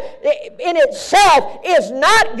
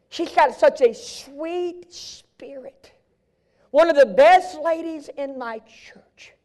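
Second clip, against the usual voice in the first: whisper; 4 dB quieter, slower than usual. Real, not acted. Hushed aside about church lady.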